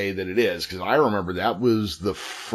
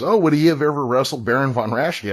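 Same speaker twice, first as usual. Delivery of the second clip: higher, louder mock Winnipeg accent; thick Winnipeg accent; 5 semitones higher, 4 dB louder than usual. Lady quizzing him on a wrestler, thick Winnipeg accent. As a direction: imitate an eager Winnipeg local, pitched up. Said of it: "she's got this thick Winnipeg accent".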